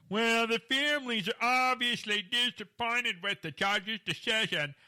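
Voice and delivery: loud, high, slow put-on lawyer voice; creepy voice. Host quoting the disappointed families' lawyer, in a creepy voice. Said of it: "I always try to use a creepy voice".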